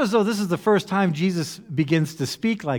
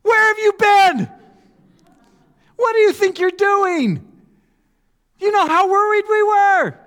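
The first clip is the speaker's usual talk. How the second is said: very high, loud hammed-up frantic mom; shrieking mock mother; 7 dB louder than usual. Pastor voicing Mary scolding the runaway son, hammed-up shriek. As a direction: scream it like a panicked mother. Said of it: "This is the Bible cleaning up".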